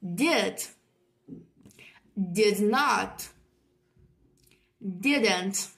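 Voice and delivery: isolated words with long pauses for repetition; repeat-after-me modelling. Shown as a demonstration. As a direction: model each form on its own, leaving room to echo. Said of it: "one more time".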